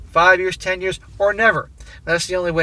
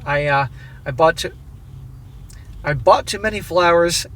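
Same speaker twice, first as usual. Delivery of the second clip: steady read-aloud voice for a written letter. A narrator's reading. Narrator reading the letter to his wife, measured and even. Reads the story update aloud.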